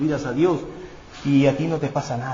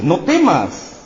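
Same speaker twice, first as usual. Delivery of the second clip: reassuring; 4 semitones higher, 6 dB louder, much slower than usual. Acted. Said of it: "el temor era evidente que David le dice".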